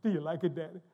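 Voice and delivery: eager bubbly questioning; lightly bubbly retold question; imitating bubbly daughter. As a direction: mimic a daughter fishing eagerly for dad's approval. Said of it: "she's all bubbly".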